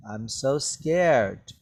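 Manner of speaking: slow, drawn-out mock fear; sarcastic. Shown as a demonstration. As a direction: say it like you don't mean it.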